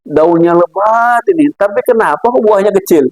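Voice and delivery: slow, stretched-out marvelling that rises into a question; acted wondering. Man under a banyan ponders its tiny fruit, acted wondering. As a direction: drag out the words, then puzzle aloud. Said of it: "Kata dia".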